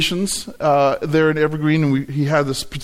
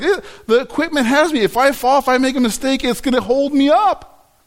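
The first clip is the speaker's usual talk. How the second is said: retold confidence; 8 semitones higher than usual. Retold new confidence climbing.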